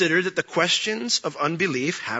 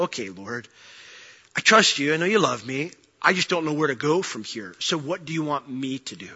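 quiet prayer; 2 semitones lower, 5 dB quieter than usual. Acted.

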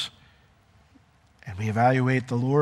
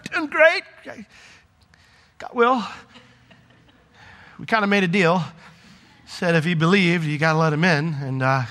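higher, upbeat explaining the deal; cheerful; 3 semitones higher than usual. Pretend. Jesus explains letting Will in, cheerful high voice. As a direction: sell it cheerfully to Dad.

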